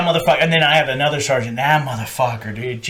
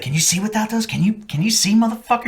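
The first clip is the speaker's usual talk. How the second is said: imitated badgering sergeant; 7 semitones higher than usual. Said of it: "He's like, he's like".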